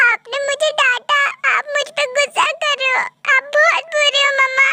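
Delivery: lightly voiced upset child; a child's wounded protest; hurt little daughter. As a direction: accuse mother like a scolded little girl. Scolded child protests to mother.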